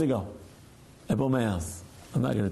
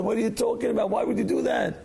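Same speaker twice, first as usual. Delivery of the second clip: retold bafflement, higher-pitched; incredulous questioning; 4 semitones higher, faster than usual. Rabbi questions his neighbor's unexpected favor, acted incredulous. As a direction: act out mild disbelief at a favor.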